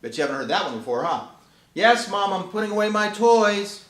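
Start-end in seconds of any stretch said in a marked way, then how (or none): 1.7-3.9 put-on higher, louder eager child voice; cheerful dog kid. Dog kid answering mom at dinner, bright eager yes. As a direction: sound keen to obey. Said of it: "When cats and dogs are called".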